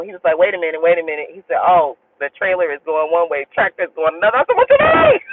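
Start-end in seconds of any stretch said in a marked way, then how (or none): 0.4-4.4 low, calm imitation of the driver; unfazed. Driver reassuring a passenger on the icy ramp, calm. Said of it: "he was not freaking out at all". 4.6-5.2 very high retold squawk of panic; freaking out. Passenger challenging the driver on the sliding truck, panicked. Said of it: "I'm over there freaking out".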